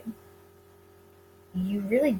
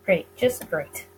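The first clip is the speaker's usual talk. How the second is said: sarcastic; 4 semitones lower, slower than usual. Acted. Sarcastic grumble.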